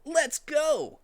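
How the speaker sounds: high, loud go-call; rally him out the door; excited. Acted. Heading off to the prom.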